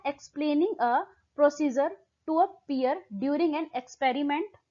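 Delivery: slow, deliberate exam-question read. Acted. Teacher reading the question text slowly to students. Reads option aloud slowly.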